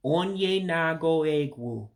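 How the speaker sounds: "onye nago egwu" slow, each word apart; slow breakdown. Shown as a demonstration. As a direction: spell out "onye nago egwu" slowly for learners. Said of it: "I'll break it down one more time".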